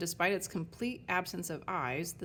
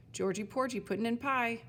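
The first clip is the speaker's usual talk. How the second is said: reciting a slogan; 4 semitones higher than usual. Acted. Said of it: "as if reciting a corporate slogan".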